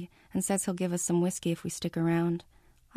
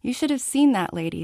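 loud, gleeful exclaim; excited; 6 semitones higher, 6 dB louder than usual. Acted. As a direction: burst out with glee. Laughing friend exclaiming.

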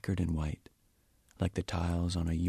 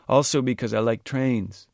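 louder, higher "Also because I like trains"; raised voice; 5 semitones higher, 9 dB louder than usual. A narrator's reading. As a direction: keep the voice raised. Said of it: "raising his voice".

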